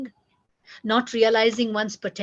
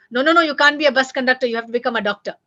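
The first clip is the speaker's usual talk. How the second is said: fast, louder no no no; angry parent; 6 dB louder, much faster than usual. Retold or imitated. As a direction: scold the child's dream away. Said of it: "You don't get angry".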